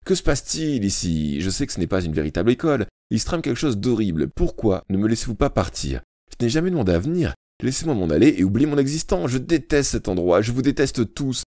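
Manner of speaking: put-on boy losing his temper, building; outburst. A narrator's reading. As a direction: let it all explode at the teacher. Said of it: "s'emporta David".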